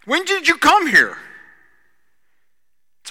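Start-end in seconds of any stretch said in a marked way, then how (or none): 0.1-1.2 loud, high startled question; crowd calling out. Retold or imitated. Crowd finding Jesus across the sea, loud and high. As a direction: call out, surprised. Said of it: "they said to him".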